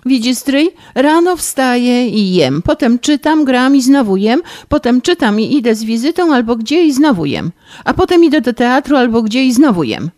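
high, tearful whining complaint; rozżalona skarga. Acted. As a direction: whine through tears about being spoiled. (bratanica żali się stryjowi, płaczliwie i wysoko)

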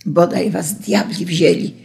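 understated curse in a changed timbre; narrator's restrained angry exclamation. A narrator's reading. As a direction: mutedly wish them to the devil. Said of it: "krzyknął chłop".

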